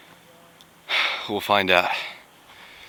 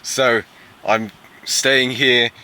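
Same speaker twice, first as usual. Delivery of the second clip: fake British accent; 2 semitones higher than usual. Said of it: "that fake British accent the whole time".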